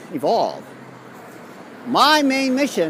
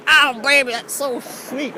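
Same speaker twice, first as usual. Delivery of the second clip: mock sultry coo; 8 semitones higher, 3 dB louder, slower than usual. Vlogger coos to an imagined lover in a high slow voice. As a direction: purr it like a mock seductress.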